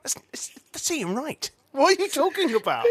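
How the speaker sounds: a high, laughing disbelief; mock outrage through laughter; incredulous laughing. Imagining Omid's reaction, high laughing disbelief. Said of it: "imagine Omid going".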